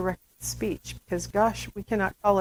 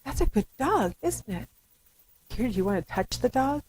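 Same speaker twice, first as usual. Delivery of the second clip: put-on baby talk. Shown as a demonstration. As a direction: coo over the dog to the baby. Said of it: "I'd say".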